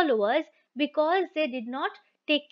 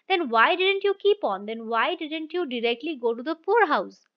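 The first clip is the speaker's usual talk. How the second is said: indignant demand. Retold or imitated. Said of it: "his wife asks".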